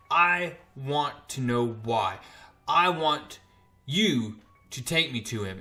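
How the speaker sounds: measured words with pauses between; slow, deliberate demand. Retold or imitated. Dylan demands to be taken to Null, slow and deliberate. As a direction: spell out the demand slowly and firmly.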